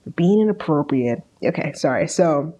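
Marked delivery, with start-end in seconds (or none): 0.0-1.2 stern, measured dad lecture; a lightly voiced disappointed TV father; Bert Hummel impression. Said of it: "You have his cadence perfectly".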